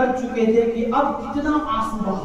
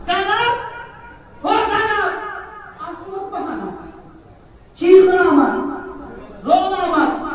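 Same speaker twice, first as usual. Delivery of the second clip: high, keening call of a name; anguished calling; 7 semitones higher than usual. Acted. Brother calls his sister before going to die, high and keening. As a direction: cry her name out in grief.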